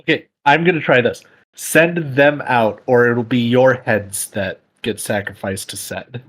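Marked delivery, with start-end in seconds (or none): 1.5-6.2 slow, deliberate ultimatum; measured threat. Acted. Player threatening the kidnappers with sacrifice, slow mock ultimatum. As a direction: draw out the threat, starting firm.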